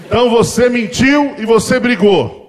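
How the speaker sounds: slow, loud, laughing dad; loud amused accusation; laughing verdict. Retold or imitated. Father's verdict.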